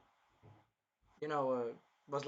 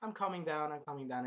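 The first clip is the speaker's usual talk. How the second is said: calming down; 6 dB quieter than usual. Retold or imitated. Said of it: "And then she's like".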